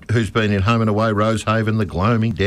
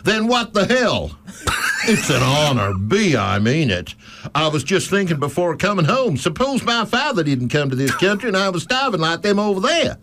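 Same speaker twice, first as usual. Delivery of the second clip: put-on a shaky, higher stab at a Brooklyn accent that drifts away; attempted Brooklyn accent; 9 semitones higher than usual. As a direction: try a Brooklyn accent and miss it, half laughing. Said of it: "in your best Brooklyn accent".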